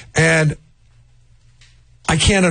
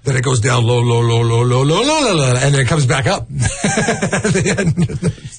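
ski-jump pitch; slower than usual. Shown as a demonstration. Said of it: "It's like a ski jump".

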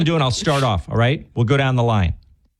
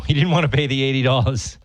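Massachusetts accent. Real, not acted. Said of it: "you just got a Massachusetts, uh, accent there".

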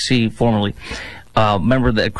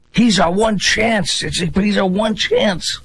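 mock desperate hype; 8 semitones higher, slower than usual. Mocking Democrats' mantra.

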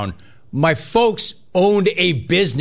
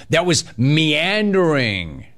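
"meandering" drawn out slowly; slow, stretched "meandering"; big-word emphasis; 2 semitones higher, slower than usual. Real, not acted. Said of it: "Here come my big words".

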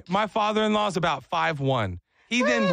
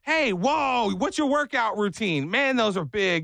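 higher, eager fanboy impression; imitated admiration; 4 semitones higher, slower than usual. Father-in-law admiring a worker's muscles, high eager voice. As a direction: gush over him in a raised mock voice.

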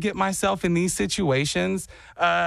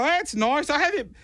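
high, hammed-up Australian; fake Australian accent; 8 semitones higher than usual. Fake Sydneysider recalls childhood to strangers, high mock Australian accent. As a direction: keep up a bogus Australian accent. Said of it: "you're slipping on your accent".

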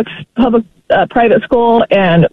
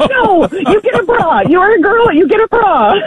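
retold incredulous mom putting her foot down; emphatic motherly refusal; 8 semitones higher than usual. Mother acts out refusing a binder.

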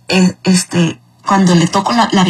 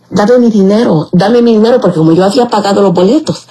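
retold yelling. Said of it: "yo le gritaba".

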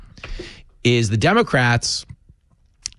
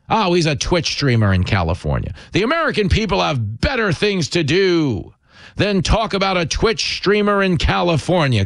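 mocking imitation, pitched up as it goes; mock talking point; 6 semitones higher than usual. Commentator mimics politicians dodging questions about a streamer, mocking. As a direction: parrot the line mockingly, rising higher.

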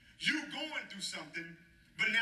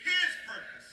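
"His purpose" raised high and louder; louder call; 10 semitones higher, 5 dB louder, slower than usual. Shown as a demonstration. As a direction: belt "His purpose" for the congregation to echo. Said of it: "say it louder".

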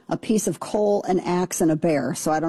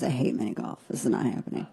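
hushed inner thought; 7 semitones lower, 7 dB quieter, faster than usual. Retold or imitated.

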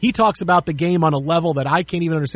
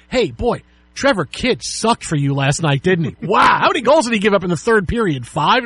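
mock-teasing a colleague, a bit louder; playful needling; 2 semitones higher, 4 dB louder than usual. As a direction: rub in the bad night with a grin. The speaker needling about fantasy loss.

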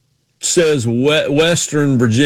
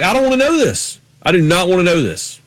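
higher-pitched mock protest; retold protest; 4 semitones higher than usual. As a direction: protest it in a raised pitch, retelling. Acts out protest to film guys.

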